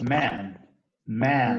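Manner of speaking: man con la A abierta que hace sonreír; the English vowel in man. Shown as a demonstration. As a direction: decir man con la a abierta, casi sonriendo. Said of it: "Es esa A que nos hace sonreír". (man con la A de sonrisa)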